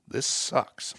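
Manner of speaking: unvoiced, breathy grumble; muttered whisper. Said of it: "I literally said".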